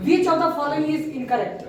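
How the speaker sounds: slow, measured classroom read-out; slow question reading. Real, not acted. Teacher reads a quiz question to the class, slow question reading. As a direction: read it out slowly and deliberately.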